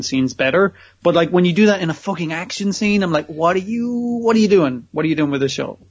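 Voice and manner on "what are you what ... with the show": incredulous mock questioning of the show; exasperated disbelief. Viewer baffled by a badly shot action scene, exasperated. Reacting incredulously to the show's direction.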